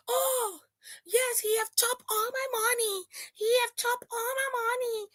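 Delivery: high, soft fake sobbing plea; mock crying. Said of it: "you are asking your supporters".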